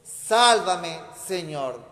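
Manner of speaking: loud cry of "Sálvame" then a dropped "Señor"; shouted plea. Shown as a demonstration. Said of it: "hay que gritarle a Jesús". (grito de súplica, fuerte en "Sálvame")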